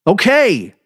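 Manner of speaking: high loud resigned okay; dazed okay. A narrator's reading. Narrator dazedly saying okay to nobody. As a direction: say it to no one. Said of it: "I said".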